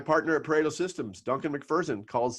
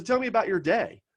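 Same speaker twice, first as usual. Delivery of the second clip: mentor's voice; 8 semitones higher than usual. Retold or imitated. Retelling mentor's request.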